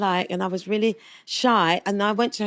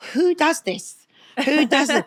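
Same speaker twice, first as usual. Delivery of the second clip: incredulous; 6 semitones higher, 3 dB louder than usual. Retold or imitated. Amazed at posh house.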